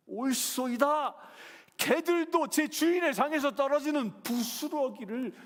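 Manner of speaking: loud, high, fervent answer; the woman answers Jesus fervently; humble earnest reply. Acted. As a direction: answer Jesus with bold humility. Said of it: "뭐라고 얘기합니까".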